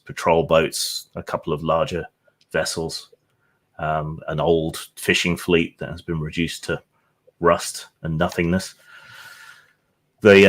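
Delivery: measured, atmospheric scene-setting; game master narration. Acted. GM sets the scene.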